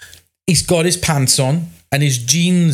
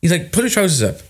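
shocked outburst; 6 semitones higher than usual. Retold or imitated. Shocked at client dropping trousers.

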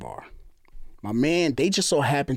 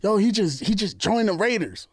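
imitating excited guys hyping a friend; mock hyping up; 5 semitones higher than usual. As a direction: talk him up, a touch higher. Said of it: "They're hyping me".

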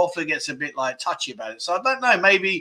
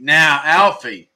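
drawn-out teasing call; 6 dB louder, much slower than usual. Real, not acted. Teasing a chat viewer by name.

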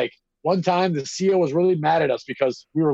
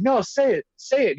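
higher-pitched taunting demand, imitated; mock angry cop; 8 semitones higher than usual. Cop challenging the inmate to speak up, mock stern. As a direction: dare him to speak, hammed-up. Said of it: "he's like".

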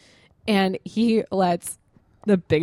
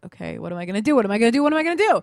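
rising panicked repeats, climbing higher; panicking; 3 semitones higher, much faster than usual. Retold or imitated. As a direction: spiral up into panic. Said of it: "I'm fucking panicking".

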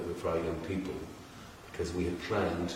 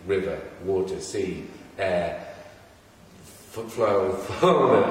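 a hint of hushed-documentary narrator, measured list with pauses; lightly grand nature-presenter listing, breaking into a laugh at the end; David Attenborough. Real, not acted. Host listing habitats for the project, lightly like a documentary narrator. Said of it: "I sound like David Attenborough".

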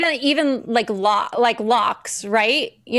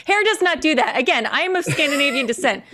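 laughing; 4 semitones higher than usual. Real, not acted. Laughing while joking about heritage.

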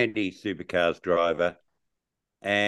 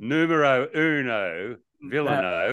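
put-on Italian accent; 2 semitones higher than usual. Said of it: "that's not Italian, is it?".

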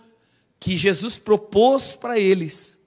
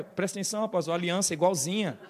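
teasing warning; 2 semitones lower, 11 dB quieter, faster than usual. Retold or imitated.

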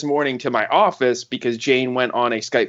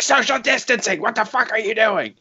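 retold anger; 11 semitones higher than usual. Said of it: "my anger towards this situation".

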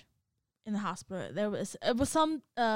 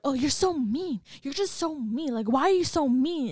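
mocking coworker; 5 semitones higher, 6 dB louder than usual. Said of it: "she just like".

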